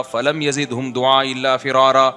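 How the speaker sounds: slow chanted tilawat; Quran recitation. Acted. Preacher recites the verse to his listeners. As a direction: recite it slowly and melodically.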